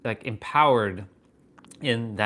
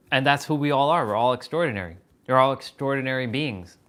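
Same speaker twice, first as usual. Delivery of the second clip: louder, stressing all; proclaiming; 5 dB louder than usual. Real, not acted. Telling his viewers they are extraordinary, loud proclamation. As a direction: declare it to everyone listening.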